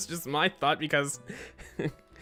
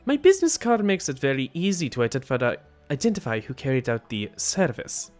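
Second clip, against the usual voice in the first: put-on accented hitman character; 4 semitones lower, 3 dB louder than usual. Killer explains his client's guilt, accented character voice. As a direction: declare it as a formal accented killer.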